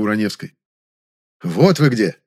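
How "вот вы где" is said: a louder exclamation with put-on indifference; feigned indifference. Director finding the actress, loud exclamation with feigned indifference. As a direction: call out, acting unconcerned. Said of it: "сделанным равнодушием воскликнул".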